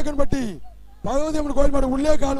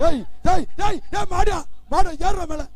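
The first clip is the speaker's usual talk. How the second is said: shouting; 6 semitones higher than usual. Real, not acted. Bull climbing, announcer yells.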